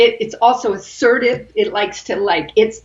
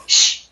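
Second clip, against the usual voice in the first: breath of fire shush. Shown as a demonstration. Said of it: "feel how it contracts here".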